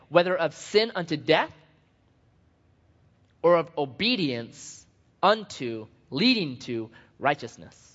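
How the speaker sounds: slow, measured Bible reading; scripture reading. Acted. Pastor reading Romans to congregation, measured scripture reading. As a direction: read the verse out deliberately, phrase by phrase.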